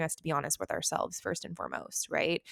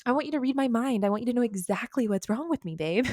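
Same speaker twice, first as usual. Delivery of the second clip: mock whiny reply; 5 semitones higher than usual.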